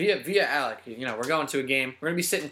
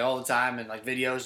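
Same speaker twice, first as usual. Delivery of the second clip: ordinary talk, nothing marked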